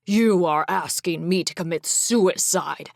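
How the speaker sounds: loud bitter snarl. Acted. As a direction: bite the words out. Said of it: "Cameron snarled".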